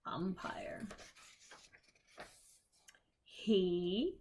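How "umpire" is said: whispered umpire. Real, not acted. Whispered repeat of book word.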